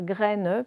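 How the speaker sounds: "graine" slowly split, sounding the final ne; stretched "graine" with an audible n; split pronunciation. Shown as a demonstration. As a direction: draw out "graine" as è plus ne. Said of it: "il se sépare, le est d'un côté et le ne".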